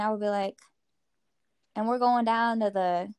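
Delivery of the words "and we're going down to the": lightly shown West Virginia drawl. Shown as a demonstration. Giving listeners an example, light West Virginia drawl. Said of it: "like, drawl on some words".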